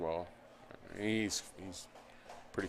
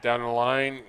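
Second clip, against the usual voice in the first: excited call; 3 semitones higher, 8 dB louder than usual. Real, not acted. Play-by-play call on a hit.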